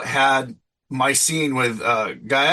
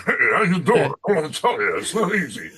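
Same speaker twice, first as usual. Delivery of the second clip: higher-pitched stand-up comic impression; Rodney Dangerfield; 4 semitones higher than usual. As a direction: do the put-upon old comedian's voice. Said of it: "I do a really good Dangerfield".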